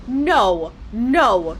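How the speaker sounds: loud. Real, not acted. Dreading the rune's curse.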